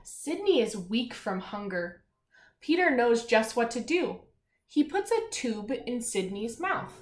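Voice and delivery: lightly storybook read-aloud; reading aloud to children. Acted. Teacher reading a seal story to children, storybook voice. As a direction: read the page clearly to the class. Reads picture book aloud.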